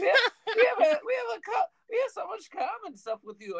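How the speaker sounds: put-on high-pitched comic Jewish accent. Comedian imitating Catholics talking to Jews, high Jewish accent. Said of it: "I'm doing a Jewish accent".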